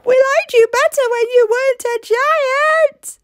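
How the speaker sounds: high, put-upon villager voice; complaining villagers. Acted. Villagers scold giant Ellie, high complaining voice. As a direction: scold her like fed-up neighbours. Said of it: "cried the villagers".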